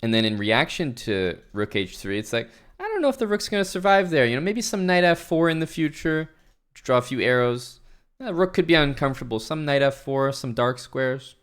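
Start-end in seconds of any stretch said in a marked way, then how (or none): 2.8-11.4 mock chess commentator. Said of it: "chess commentator word is the word sum".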